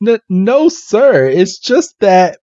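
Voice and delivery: high, stammering apology; acted high-pitched fluster; flustered maids. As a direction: placate an angry master nervously. Nervous maids placating an angry master.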